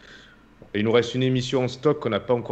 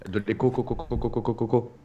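fading repeated co syllables; mock echo; 4 dB quieter than usual. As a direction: imitate an echo dying away.

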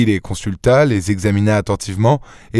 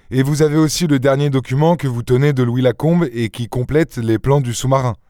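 higher-pitched, businesslike checking question; lightly voiced negotiator; 4 semitones higher than usual. Daspry checking the banker has the last document, businesslike questioning. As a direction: check the terms as the dealmaker.

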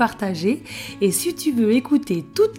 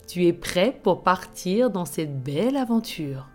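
right in your ear. Acted. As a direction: breathe them gently into calm. Leads a relaxation before story. (voix douce de relaxation guidée)

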